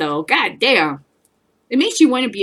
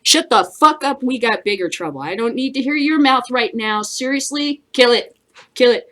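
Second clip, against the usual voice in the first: dismissive order; 3 semitones higher than usual. Acted. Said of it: "repeated acted dismissal".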